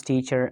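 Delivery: teacher ending in a schwa; British non-rhotic teacher. Shown as a demonstration. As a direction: drop the final R of teacher. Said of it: "in British English".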